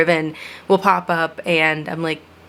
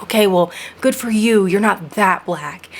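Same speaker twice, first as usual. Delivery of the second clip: mock dismissive; 2 semitones higher than usual. Mimicking dismissive people.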